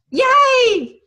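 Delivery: a big, high, loud "Yay!" shouted in delight; excited cheer. Acted. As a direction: throw up a joyful Yay! cheer. Cheering after the tomato paste.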